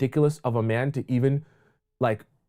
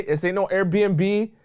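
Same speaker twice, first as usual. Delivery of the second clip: slow emphatic scold; 4 semitones higher, much slower than usual. Acted. Scolding, drawn out.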